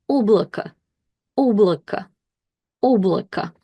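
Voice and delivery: облако stressed on the first О, the last О said as a short A; careful Russian reading. Shown as a demonstration. Teacher reading облако aloud for learners, careful. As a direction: sound out облако, stress up front. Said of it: "So we'll read it as".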